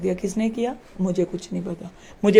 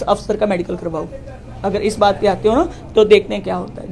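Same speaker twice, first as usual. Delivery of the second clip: retold anger. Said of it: "फिर मुझे गुस्सा आया".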